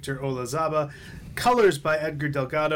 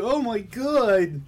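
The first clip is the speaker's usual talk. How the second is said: slow, high, put-on horrified voice; mock gasp; 7 semitones higher, 4 dB louder, much slower than usual. Teasing his co-host's reaction to a comic, mock-shocked. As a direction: drag it out like a scandalized fan.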